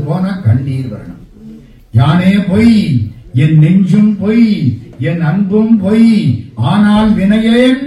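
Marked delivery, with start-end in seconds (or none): 1.9-7.8 devotional verse recitation. Acted.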